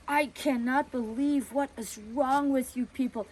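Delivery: a busybody tearing into them; accusing a family for letting their girl go; indignant neighbor. Retold or imitated.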